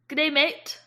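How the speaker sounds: amateur attempt at Australian; Australian accent. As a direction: try an Australian accent, not expertly. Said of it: "I'm not good at accents".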